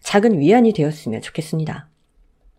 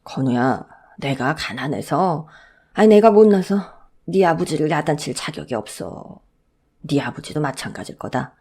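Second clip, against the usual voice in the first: sad, gentle grandfather. Acted.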